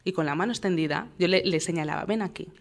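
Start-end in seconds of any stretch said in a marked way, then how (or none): 2.1-2.5 firm calm call. Retold or imitated. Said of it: "como se mantenía firme, mi tono también".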